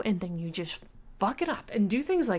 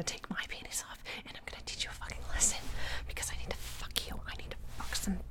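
dominant whisper. Acted. Dominant girlfriend whispering threats to her boyfriend.

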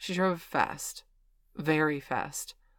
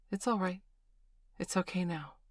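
gentle; 3 semitones higher, 4 dB quieter than usual. Acted. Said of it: "she said gently".

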